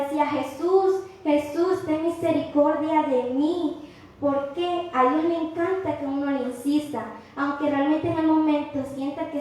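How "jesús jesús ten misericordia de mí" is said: shouting. Retold or imitated. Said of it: "Gritaba y gritaba".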